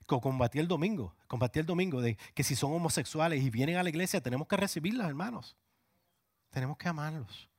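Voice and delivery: high, rising preaching cry; fervent preacher peak; impassioned preaching. Real, not acted. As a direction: plead with the congregation, climbing high.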